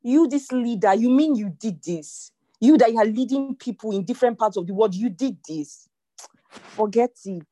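mock guilty inner voice; self-scolding inner voice. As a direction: scold yourself in disbelief. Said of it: "you just feel like".

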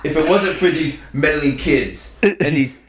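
Donald Trump voice, lightly done; ad-libbed Trump bragging; Trump impression. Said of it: "let me hear your Trump".

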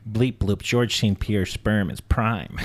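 low, slow alien voice; robotic alien, low and slow. Pretend. Playing an alien.

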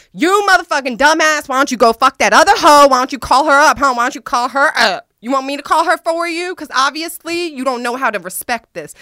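loud, high, furious yell at him. Retold or imitated. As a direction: scream at him, outraged. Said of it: "And so I started going off".

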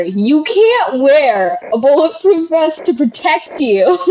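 slow indignant protest; mock outrage. Robber complaining about the unfair vest law, slow mock outrage. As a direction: drag out the complaint, offended. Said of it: "They're like".

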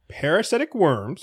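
slow, deliberate headline delivery. Real, not acted. Host repeats the headline for a co-host, slowly. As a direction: read slowly in separate chunks. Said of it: "do that again a little slower".

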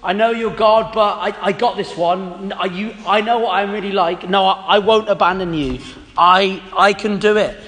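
lightly acted, stumbling protest; mildly hammed-up self-assurance; insistent protest. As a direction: insist through false starts, as if overconfident. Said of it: "insisting that".

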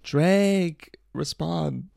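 high, mock-desperate plea; put-on needy drunk wail; drunk thot tweet. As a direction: call out the name high and stretched, begging for an answer. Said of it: "he ats him in the fucking reply".

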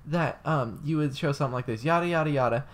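hammed-up indignant woman; mock offended lady. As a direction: whine it like the offended classmate. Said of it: "she goes".

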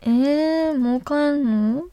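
playful pouting plea, quick at the end; sweetly begging him not to go home yet; coy plea to stay. Acted. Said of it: "うまいなあ。". (甘えるように帰りたくないと引き止める)

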